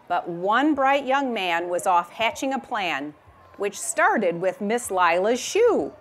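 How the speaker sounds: reading a rhyming picture book aloud; gentle storytime reading voice; story narration. A narrator's reading. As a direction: read it like storytime for a class.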